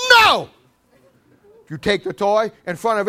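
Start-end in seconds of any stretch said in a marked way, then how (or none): 0.1-0.5 put-on high shouted child's refusal; defiant shout. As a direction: yell no like a defiant toddler.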